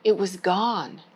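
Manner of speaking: put-on gentle storybook read-aloud for kids; story time reading. Children's librarian reading a Bible story, gentle.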